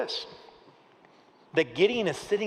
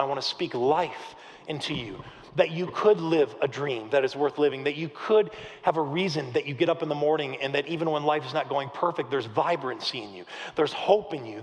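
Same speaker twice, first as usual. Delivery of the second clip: yearning; 2 semitones lower than usual. Acted. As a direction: speak hope gently into someone hurting. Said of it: "like, yearning".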